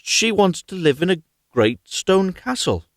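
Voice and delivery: a touch of nervousness; a hint of fear before the flounder; half scared. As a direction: timidly confess what she wants. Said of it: "half scared".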